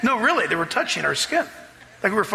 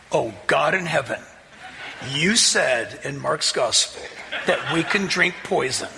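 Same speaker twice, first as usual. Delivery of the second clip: laughing prayer; 4 semitones lower than usual. Retold or imitated. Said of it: "I remember saying this to myself".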